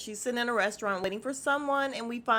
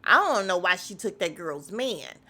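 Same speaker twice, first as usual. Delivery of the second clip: blunt original version; 2 semitones lower, 4 dB louder than usual. Retold or imitated. Host correcting Kelly's retelling, blunt and loud. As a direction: imitate how it was really said, no sweetening. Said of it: "that is not how you said it. You said".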